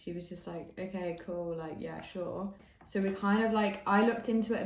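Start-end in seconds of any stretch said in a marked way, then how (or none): 0.8-2.5 quietly noncommittal, trailing softer; unconvinced agreement. Retold or imitated. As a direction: go along without much interest. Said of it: "Mia wasn't convinced".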